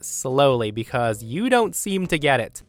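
patronizing, increasingly drawn-out demand; slow, condescending explanation. Acted. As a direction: spell it out slowly for someone not getting it. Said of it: "explain this again slowly".

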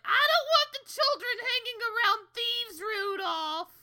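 high, disapproving mother; prim mother voice. Retold or imitated. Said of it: "Crystal's like".

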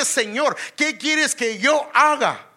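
slow, high, loud awed plea; humble plea. Acted. Paul's question voiced, preaching.

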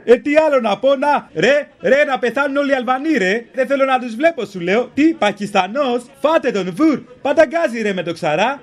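hammed-up hateful cop chant; fascist cop. Mocks far-right cop on radio. (φωνακλάς φασίστας, παρωδία)

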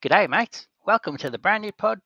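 put-on high, loud Australian accent for an ad; hammed-up Australian greeting. Host asks for an ad for Australasian listeners, Australian accent. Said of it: "what have you got to say to our Antipodean".

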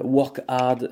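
slow, deliberate words in a French speaker's English accent. Shown as a demonstration. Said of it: "désolé pour mon accent anglais".

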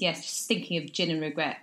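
ordinary delivery

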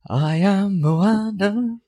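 high, slow and grand; grand heroine voice. Pretend. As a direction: proclaim it like a movie heroine. Announcing self as movie heroine.

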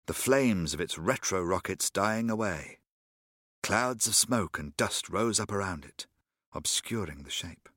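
audiobook narration with character voices; dramatic reading of a Doctor Who novel; story narration. A narrator's reading. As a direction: read the adventure aloud, letting voices take over. Reads audiobook story aloud.

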